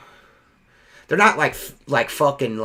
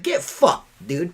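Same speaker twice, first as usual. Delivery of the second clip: retold angry dismissal; 2 semitones higher, slower than usual. Window cleaner telling off rude customer, retold angry dismissal. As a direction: act out telling someone off, pitch leaping up. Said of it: "I fucking told him to get fucking bent".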